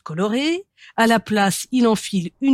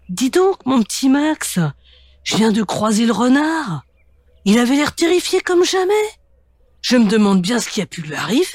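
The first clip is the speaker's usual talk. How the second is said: grandmother; 4 semitones higher than usual. Acted. Grandmother voiced in story.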